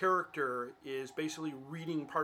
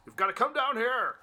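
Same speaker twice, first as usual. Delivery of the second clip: loud, high dramatic challenge; raised, booming mock demand; hammed-up movie shout; 7 semitones higher, 6 dB louder than usual. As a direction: shout it like an overacted film hero. Acting out the Khan movie scene.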